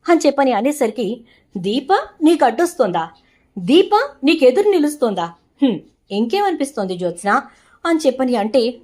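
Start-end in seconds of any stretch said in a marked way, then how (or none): 1.6-7.4 a touch of mocking sarcasm, lightly voiced; mother mildly mocking her daughter's complaint; sarcastic. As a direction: throw her words back at her with mild scorn. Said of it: "వెటకారంగా మాట్లాడుతున్నావు?".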